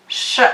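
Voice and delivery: sh said as a long hushed hiss; teaching the sh sound slowly. Shown as a demonstration. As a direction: blow out a steady sh. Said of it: "now we pronounce this as".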